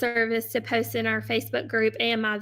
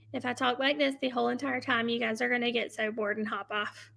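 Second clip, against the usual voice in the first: flat, quieter monotone drone; 2 semitones lower, 6 dB quieter than usual. Shown as a demonstration. Seller shows live viewers a dull monotone. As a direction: drone on so they get bored. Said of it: "fluctuate your voice".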